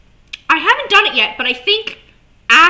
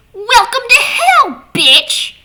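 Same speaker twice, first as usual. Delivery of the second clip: mock tough guy; 12 semitones higher, 10 dB louder, slower than usual. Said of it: "where Moxie goes".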